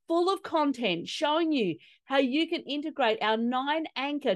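lively, polished podcast promo; promo read. Real, not acted. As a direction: sell the event with upbeat, lilting emphasis.

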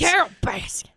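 hushed gossipy whisper of "Carol Baskins". Real, not acted. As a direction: breathe "Carol Baskins" as a secret. Echoes name in hushed gossip.

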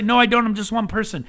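loud, high protest of someone who feels small; doubting voice. Retold or imitated. Doubters objecting to the host, mock loud protest. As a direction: push back like a doubter. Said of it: "And people say".

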